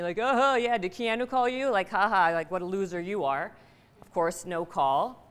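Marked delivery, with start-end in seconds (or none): 0.2-3.5 mocking tease. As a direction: sneer it like a playground bully. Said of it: "everyone's teasing me".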